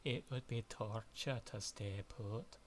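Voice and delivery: Scottish accent, slow and deliberate; retry it in Scottish accent, slowly. Shown as a demonstration. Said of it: "my Scottish voice is not in shape".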